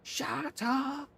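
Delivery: high, soft imitation of the wife; mock wife. Streamer imitating his wife telling him off, high mock voice. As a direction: squeak it like the annoyed missus. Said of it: "the missus will be in going".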